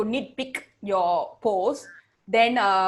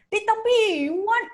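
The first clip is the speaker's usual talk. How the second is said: high, hammed-up Indian accent; mock the hawker's Indian accent again; imitated Indian accent; 10 semitones higher than usual. Hawker to foreign worker, high mock Indian accent. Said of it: "he's like".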